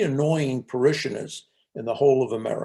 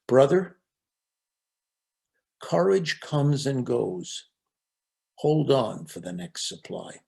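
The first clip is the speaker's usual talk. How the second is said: gentle comfort; slower than usual. Retold or imitated. Merton gently comforts the monk.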